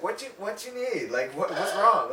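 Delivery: high-pitched, lilting questions; imitated concerned helper. Older lady trying to help.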